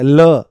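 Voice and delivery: "ल" said alone with the tongue on the teeth; sound demo. Shown as a demonstration. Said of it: "जैसे ही आप ल बोलोगे तो दांतों से".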